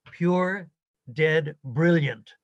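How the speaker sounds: light imitation of a fast Glasgow Scottish accent, dead brilliant stretched slow and loud; mock Glasgow dean in a thick Scottish accent; a hint of a Glaswegian lilt, brilliant drawn out. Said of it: "which is a very thick Scottish accent".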